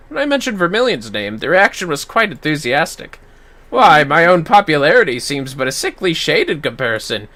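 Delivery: lightly voiced amused aristocrat; needling the hero about his reputation; wry noble. Lower wry NPC.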